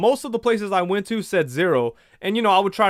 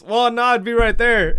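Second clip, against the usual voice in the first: offhand clerk; 5 semitones higher, 5 dB louder than usual. Retold or imitated. Clerk pointing at empty counter.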